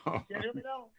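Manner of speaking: muffled, distant voice; sounding like through glass; inside a fishbowl. Real, not acted. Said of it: "Sound like you talking in a fishbowl".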